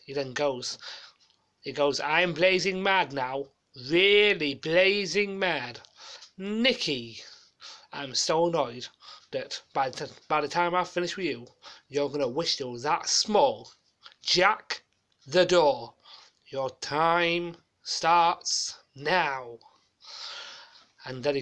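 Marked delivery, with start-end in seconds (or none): 2.0-13.7 lightly voiced TV host pretending to be furious; Leslie Grantham impression, mock mad. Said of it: "doing a copycat of Leslie Grantham on Fort Bayard". 14.2-19.6 booming, dragged-out start signal; Leslie Grantham catchphrase. Retold or imitated. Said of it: "doing a copycat of Leslie Grantham on Fort Bayard".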